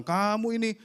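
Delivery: mildly heated mock telling-off; retold scolding. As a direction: scold as if retelling it. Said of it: "saya marahin dia".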